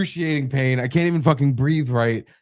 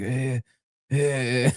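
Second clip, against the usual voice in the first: small strained groans; pained whimpers; slower than usual. Retold or imitated. Husband retelling car ride to hospital, whimpering. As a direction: whimper weakly against the pain. Slumped against car door in pain.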